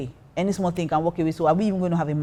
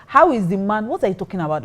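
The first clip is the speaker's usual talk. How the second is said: mock protest; 3 semitones higher than usual. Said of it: "having this conversation with him".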